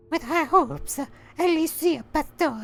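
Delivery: very high mock sign-off; comic falsetto letter closing; silly high voice. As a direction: squeak out the sign-off.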